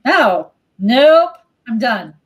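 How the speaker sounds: mock refusal climbing into a high-pitched finish; emphatic refusal. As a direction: build from punchy no's to a high, sing-out no thank you. Women rejecting it all, acted.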